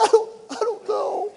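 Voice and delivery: high-pitched tearful squeak; mock crying. Patient answers worried Tina, imitated high tearful crying. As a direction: imitate yourself sobbing through the words. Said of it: "I start crying".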